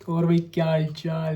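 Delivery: buddy greeting. Shown as a demonstration. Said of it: "तुम्हें ये समझ आता है".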